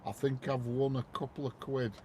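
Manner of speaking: calm understatement. Retold or imitated. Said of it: "he calmly says on phone".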